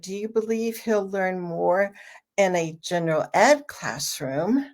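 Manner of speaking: general ed classroom set off by a pause, ed punched; weight on each word of general ed classroom; stress on GENERAL ED CLASSROOM. Shown as a demonstration. Parent probes views on segregated classrooms, stress on general ed classroom. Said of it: "if you emphasize the general ed classroom".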